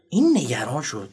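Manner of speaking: ordinary talk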